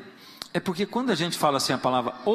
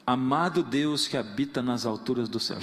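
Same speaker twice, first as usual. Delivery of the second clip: mock rote prayer; 5 semitones lower than usual. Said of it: "você já ouviu alguém orar assim".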